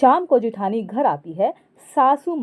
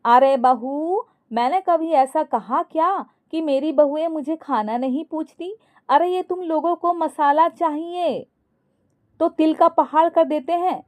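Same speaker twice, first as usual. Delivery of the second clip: raised-pitch, coaxing mother-in-law; affectionate protest, pitched up; cajoling affection; 6 semitones higher than usual. A narrator's reading. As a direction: sweet-talk both daughters-in-law in a higher voice. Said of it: "एकदम प्यार से कमला दोनों बहुओं से बोली".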